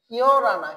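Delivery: firm model of ইয় রানা, h silent; linked pronunciation model. Shown as a demonstration. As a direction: say ইয় রানা as one word with R. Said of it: "কি হয়ে যাবে?".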